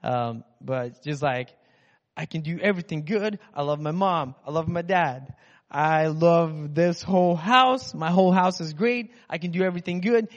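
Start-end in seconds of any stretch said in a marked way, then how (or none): 2.2-10.3 lightly voiced little girl cheering herself on; a hint of a child hyping herself up; little girl pep talk. Little girl at the mirror, lightly imitated. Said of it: "she's, like, standing on the bathroom countertop".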